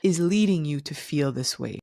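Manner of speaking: slow, gentle I see you; slow validating. Shown as a demonstration. To a partner, slow gentle validation. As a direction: acknowledge them slowly and gently. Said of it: "at least you're saying".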